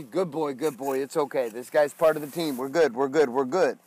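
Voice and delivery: calm, reassuring voice to the dog; soothing dog talk. Retold or imitated. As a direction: soothe the barking dog, easy and steady. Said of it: "I use a totally different tone with him".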